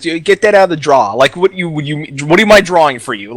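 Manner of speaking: imitating Jersey talk, drawer as draw; mock New Jersey accent. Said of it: "I've been to Jersey".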